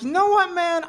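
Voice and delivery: psyched up. Retold or imitated. Psyching himself up to fly.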